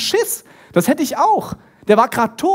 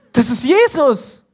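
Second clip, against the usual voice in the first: slow, higher-pitched amazement; stunned realisation; 4 semitones higher, 4 dB louder, slower than usual. Acted. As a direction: draw it out as the truth hits. Acted stunned recognition of Jesus.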